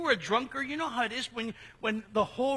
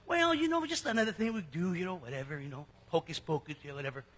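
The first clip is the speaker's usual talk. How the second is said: flippant; 4 semitones lower, faster than usual. Retold or imitated. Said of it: "thinking to themselves".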